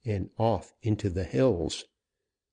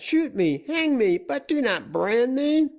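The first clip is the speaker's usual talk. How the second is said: panicked pleading. A narrator's reading. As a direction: scream your plea for mercy. Prisoner begs not be branded.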